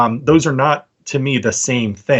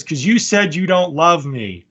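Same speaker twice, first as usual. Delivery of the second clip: put-on slow, higher, wounded little boy; hurt kid; 5 semitones higher, slower than usual. Little boy accusing his dad, slow and sulky. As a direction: sulk it like a small child. Kid in retold doorbell video.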